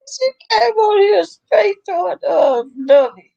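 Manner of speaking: real laughter spilling through the words; laughing while telling. Real, not acted. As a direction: tell it while cracking up. Laughing while retelling funny scene.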